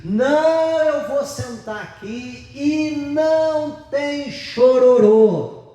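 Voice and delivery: put-on high, slow bossy kid voice; boy refusing his grandma, high and drawn out; defiant child. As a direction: lay down the law like a spoiled kid. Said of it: "Falando pra avó dele".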